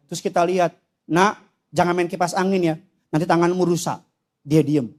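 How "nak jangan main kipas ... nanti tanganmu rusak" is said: low, lightly voiced patient parent; mild parental warning. Parent warning child off the fan, low and mild. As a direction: gently caution a small child.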